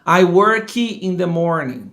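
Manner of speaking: slow "work" with an extra "ee" after the k; Brazilian learner pronunciation. Shown as a demonstration. Teacher showing Brazilians' habit, "work" ending in an added i. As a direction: say "work" as "worky", drawn out. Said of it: "comum do brasileiro falar".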